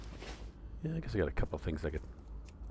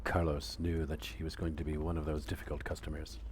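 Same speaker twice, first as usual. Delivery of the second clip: story narration; 4 dB quieter than usual. Acted. Reading the Steve Martin bit to the viewers, calm storytelling. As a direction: lightly read storyteller voice.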